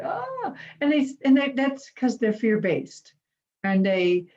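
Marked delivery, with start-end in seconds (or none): 0.0-0.5 mock scream. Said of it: "some people go".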